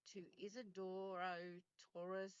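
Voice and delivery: "Isidoro Torres" said slowly, each syllable spelled out; careful Spanish pronunciation. Shown as a demonstration. Host carefully reading the father's Spanish name, slow. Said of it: "I'm going to try hard to correctly pronounce".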